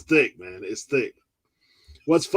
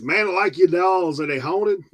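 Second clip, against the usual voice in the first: imitating Colton's accent; 5 semitones higher than usual. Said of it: "it's the accent".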